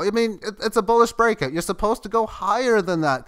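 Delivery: high, loud, excited protest; worked-up insistence. Real, not acted. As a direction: argue with it to keep climbing. Pleading with the stalling price.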